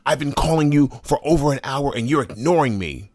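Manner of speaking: high, fast, aggrieved mimicry; hammed-up complaining in her high voice; imitating coworker. Coworker complaining he ignored her, high mock whine. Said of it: "She says".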